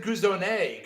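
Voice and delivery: Guzone ending in an "ay" sound; mock-French ending on Guzone; Texas pronunciation. Shown as a demonstration. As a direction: say Guzone as goo-zone-AY. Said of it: "in Texas, you pronounce it".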